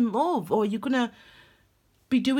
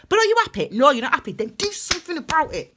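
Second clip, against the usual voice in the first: louder, higher challenge; insistent universe; 5 semitones higher, 5 dB louder, faster than usual. Acted. Universe confronting an unhappy worker, insistent and raised. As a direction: push them firmly to act. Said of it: "it's like the universe saying".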